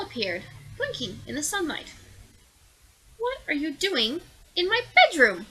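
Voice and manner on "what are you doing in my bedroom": grumbled. Acted. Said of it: "he grumbled".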